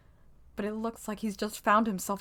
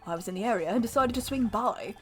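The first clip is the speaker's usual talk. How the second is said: put-on British accent. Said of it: "he's British".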